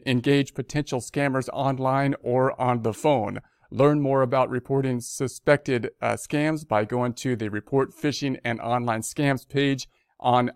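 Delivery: measured read-aloud of an official notice; news read. Real, not acted. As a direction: read the bulletin out formally. Reads the notice.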